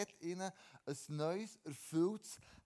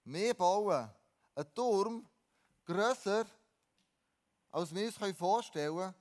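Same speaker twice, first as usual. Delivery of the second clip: proud builders; 5 dB louder than usual. Retold or imitated. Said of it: "haben Menschen gesagt".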